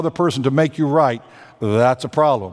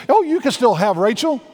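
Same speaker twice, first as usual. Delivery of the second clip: breezy deal-maker; 5 semitones higher, faster than usual. Acted. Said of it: "He says".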